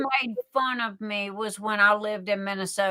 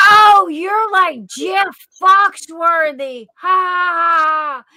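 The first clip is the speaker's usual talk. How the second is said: higher, louder, slow mock laugh of the cashier; 8 semitones higher, 8 dB louder, slower than usual. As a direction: imitate the cashier cackling at you, loud and high. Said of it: "And she goes".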